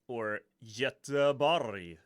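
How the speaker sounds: "Göteborg" said the Swedish way, slow and loud, YUH-teh-bory; Swedish pronunciation. Shown as a demonstration. Naming the city's Swedish name for viewers, slow Swedish pronunciation. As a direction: stretch out "Göteborg" in native Swedish. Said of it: "as it's called in Swedish".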